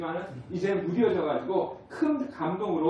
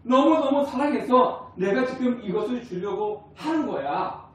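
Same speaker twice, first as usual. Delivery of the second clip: higher, swelling to a loud heartfelt cry of love; God's loving voice; 6 semitones higher, 6 dB louder than usual. Acted. God declaring his love to the congregation, a lightly acted heartfelt call. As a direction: voice God confessing his love to each person. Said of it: "이렇게 지금 말씀하고 계시는 거예요".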